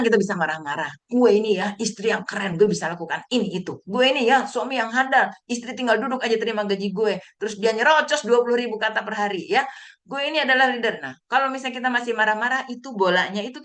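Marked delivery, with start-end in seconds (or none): 1.1-11.0 acted self-important bragging, higher and pushed; mock boasting. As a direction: play someone puffed up about their own greatness. Acting out boasts of angry winners. (menyombongkan diri, pura-pura)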